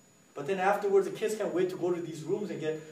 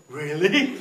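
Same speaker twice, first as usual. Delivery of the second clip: put-on amazed kids; 8 dB louder than usual. Kids react to announcement.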